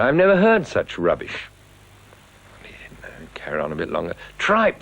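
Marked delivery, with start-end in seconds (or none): 0.0-1.5 high, loud jeering heckle; mock heckler yelling rubbish; heckler's shout. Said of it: "And the man shouted". 4.4-4.8 one high, loud barked word; shouted heckle. Retold or imitated. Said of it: "the man shouted".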